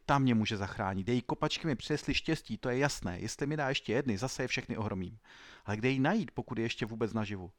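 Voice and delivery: a lightly voiced young footballer, eager and urgent; Sandro's sudden hope. Ruined footballer sits up in bed: eager hope. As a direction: seize on the one chance left. Sandro thinks aloud, hopeful.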